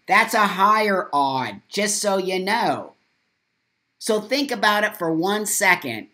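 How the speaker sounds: loud forceful lecture; loud rant. Real, not acted. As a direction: lecture the viewers hard.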